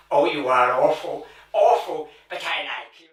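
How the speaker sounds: a hint of a coy, simpering old lady; coy flirty lady. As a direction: simper "awful" with playful mock outrage. Flirty catchphrase in comic sketch.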